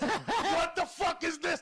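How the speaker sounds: high, loud, slow, laughing through it; laughing retold shock. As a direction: replay the shock while cracking up. Retells his own shocked reaction.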